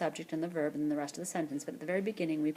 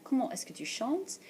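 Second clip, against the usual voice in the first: formal question model; 6 semitones higher than usual. Shown as a demonstration. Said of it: "Informal questions".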